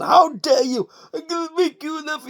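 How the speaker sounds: a half-hearted Godfather offer; mock mobster. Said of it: "mocking Tony D's mobster talk".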